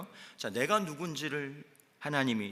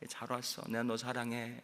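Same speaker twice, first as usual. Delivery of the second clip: tender; 6 dB quieter than usual. Acted. God welcoming a new believer.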